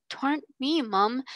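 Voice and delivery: put-on a servant girl pleading through light tears; sobbing. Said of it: "said Becky, sobbing".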